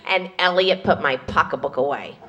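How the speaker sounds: low, soft but audible aside; bad whisper. Mother-in-law warning about her pocketbook, low audible stage aside. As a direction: pretend to whisper so everyone still hears. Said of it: "Jews can't whisper".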